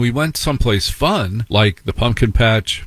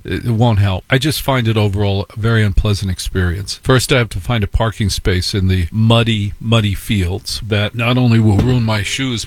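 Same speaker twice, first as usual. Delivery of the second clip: ordinary delivery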